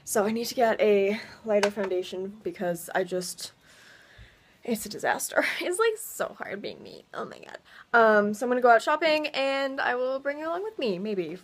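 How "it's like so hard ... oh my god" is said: mock whisper. Mock complaint after laughing.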